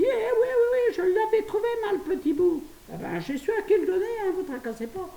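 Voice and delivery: almost crying with laughter as she tells it; laughing hard. Real, not acted. Confessing to viewers the chocolate was cannabis, laughing hard.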